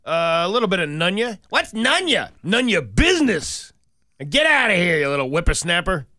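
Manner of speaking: put-on old prospector. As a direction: shoo the kid off like a grouchy geezer. Grumpy cop chasing off reporter.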